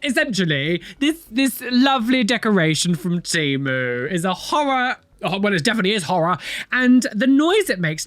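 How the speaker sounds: ordinary talk, nothing marked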